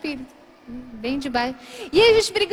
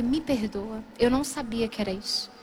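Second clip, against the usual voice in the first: lower, softer, mildly contrite; subdued apology; 5 semitones lower, 5 dB quieter than usual. Retold or imitated. Now serene girlfriend asks boyfriend forgiveness, subdued. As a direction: ask forgiveness quietly, lightly acted. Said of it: "eu pedi perdão".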